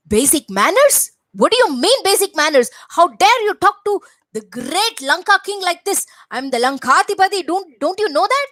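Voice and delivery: indignant Ravana. Acted. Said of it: "is what Ravana said".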